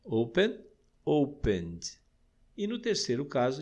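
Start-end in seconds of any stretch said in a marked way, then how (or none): 1.0-2.0 opened ending in a voiced D. Shown as a demonstration. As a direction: say opened as two syllables, "open-d". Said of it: "ele soa como um D".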